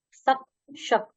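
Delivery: सक with "s", then शक with "sh"; s versus sh. Shown as a demonstration. Teacher drilling word pairs, सक against शक, separately articulated. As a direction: contrast the first sounds of सक and शक. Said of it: "उच्चारण करते हुए अंतर समझिए".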